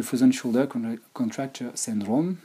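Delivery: French speaker's clumsy English accent, a touch slow; frozen shoulder said in a heavy French accent; self-mocked English accent. Shown as a demonstration. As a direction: tease your own French-accented English. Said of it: "excusez mon superbe accent anglais".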